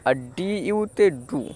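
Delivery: ডু said slowly and clearly, each letter name spaced out. Shown as a demonstration. Teacher repeating the spelling for pupils, slow and careful. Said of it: "আমি আরেকবার বলছি".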